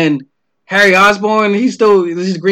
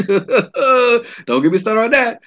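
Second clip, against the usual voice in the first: laughing aside; 4 semitones higher, much slower than usual. Real, not acted. Laughs at Venom movie.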